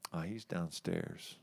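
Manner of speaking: low, soft, lazy bar worker; mumbling bar worker. Retold or imitated. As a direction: mumble it like you don't care. Bar staff voiced in story.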